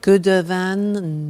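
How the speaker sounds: slow, deliberately wrong answer; wrong form. Shown as a demonstration. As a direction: play the student who gets it wrong. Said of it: "No, no, no".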